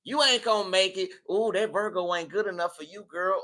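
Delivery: lightly voiced gossiping naysayer; a hint of catty discouragement; mock gossip. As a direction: put someone down like a meddling friend. Voicing gossips putting Virgo down.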